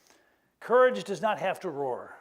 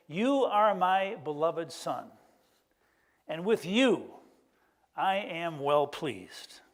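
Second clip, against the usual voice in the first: slow, solemn blessing; voice of God; much slower than usual. Acted. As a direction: bless him slowly, each word weighed. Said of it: "he hears this voice that says".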